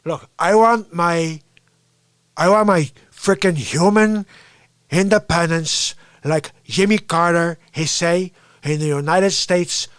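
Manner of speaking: put-on light Cuban-accented Tony Montana; a hint of Scarface swagger. Comedian doing Tony Montana, lightly Cuban accent. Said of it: "see Antonio Montana".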